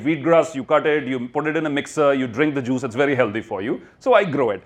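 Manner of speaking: normal talking voice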